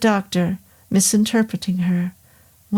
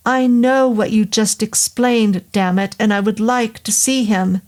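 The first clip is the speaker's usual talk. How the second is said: irritated daughter insisting to the doctor, word by word; each word emphasized; 2 semitones higher than usual. A narrator's reading. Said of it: "She emphasized each word".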